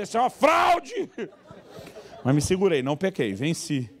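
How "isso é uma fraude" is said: much higher, louder outrage; indignant shout. Retold or imitated. Preacher voicing what he wanted to yell, much higher and louder. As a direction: cry foul in disbelief.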